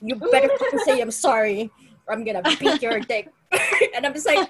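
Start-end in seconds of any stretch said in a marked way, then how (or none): 0.0-3.3 loud, aggressive mock threat; angry threat. Stripper friends telling off a rude customer, loud and aggressive. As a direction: snap it at him like a bouncer friend.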